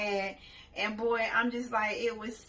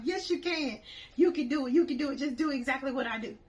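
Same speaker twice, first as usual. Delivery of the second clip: encouraging; 3 semitones higher, faster than usual. Retold or imitated. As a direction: pump her up to cross. Urging her friend on.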